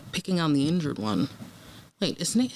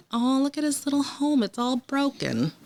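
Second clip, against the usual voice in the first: mock spooky voices; 8 semitones higher than usual. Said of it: "Not these damn whispers again".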